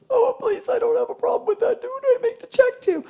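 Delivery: high, breathless put-on eagerness; eager mock client. Pretending to the booking staff she'll pay anything, high eager. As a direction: gush like a gullible customer.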